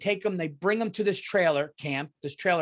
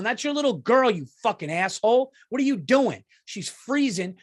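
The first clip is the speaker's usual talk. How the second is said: angry rant; 3 semitones higher than usual. Retold or imitated. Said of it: "I was angry going".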